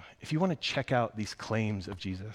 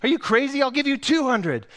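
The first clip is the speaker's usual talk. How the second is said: much higher, louder indignant voice; woman outbidding; 9 dB louder than usual. Acted. A woman outbids the man for the ticket, scoffing loudly. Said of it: "another woman saying".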